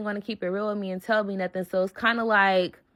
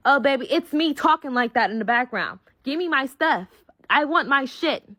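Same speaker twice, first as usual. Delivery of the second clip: pitched-up defiant demands; retold going off; 4 semitones higher than usual. Answering the man on the phone, defiant demands. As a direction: own it, indignant and insistent. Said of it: "I'm in the car going off".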